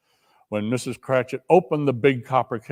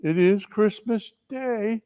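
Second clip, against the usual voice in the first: gentle coaxing; 4 semitones higher, slower than usual. Acted. Bob coaxing his wife to join the toast. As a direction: coax her kindly.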